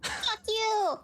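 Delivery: high-pitched defiant jeer; mock-defiant high cry; defiant taunt. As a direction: throw the insult up high, playfully. Player defies guard with rude gesture.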